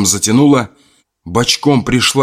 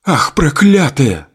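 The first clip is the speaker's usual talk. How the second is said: slow higher bitter curse; cursing; 6 semitones higher, slower than usual. Acted. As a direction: spit the curse out slowly. Adelka curses the spirit.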